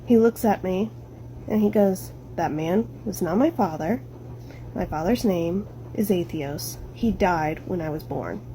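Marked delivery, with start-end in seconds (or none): 2.4-8.4 low eerie retelling. Retold or imitated. Kid's words retold eerily, lower, quieter.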